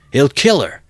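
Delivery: high, loud cry of alarm; alarmed shout. A narrator's reading. Onlooker warning the crowd, high alarmed shout. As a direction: cry out in horror. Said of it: "was shouted round him".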